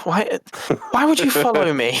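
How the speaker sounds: high-pitched exasperated complaint; exasperated protest. Real, not acted. Player to companion who followed into the alley, exasperated protest.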